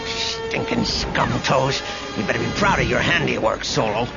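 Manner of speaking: growled. Acted. Sergeant blaming Solo under fire, growled. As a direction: growl the insult, then rush the reproach. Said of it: "Sergeant Ralph Pixar growled".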